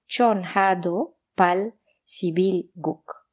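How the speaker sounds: Korean name in a French accent. Real, not acted. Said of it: "hasta le puse acento francés".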